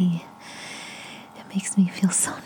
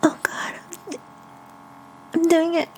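breathless climax; 4 dB louder than usual. Real, not acted. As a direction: cry out between hard, rapid breaths. Speaker at a sexual climax.

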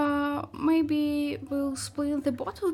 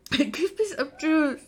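coughing; 3 semitones higher than usual. Real, not acted. Coughing after vodka shot.

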